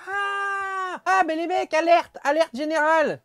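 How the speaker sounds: high, sudden cry of alarm; surprised alarm. Real, not acted. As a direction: sound the alarm, half joking. Realizes the cans are mislabeled.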